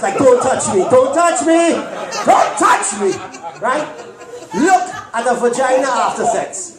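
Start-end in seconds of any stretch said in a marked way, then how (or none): 0.2-3.1 embarrassed, shrinking victim. Retold or imitated. Penis voiced as embarrassed victim.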